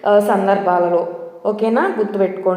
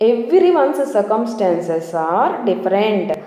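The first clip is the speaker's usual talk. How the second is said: very slow, word by word reading; slow example sentence; much slower than usual. Shown as a demonstration. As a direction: read the example slowly for learners.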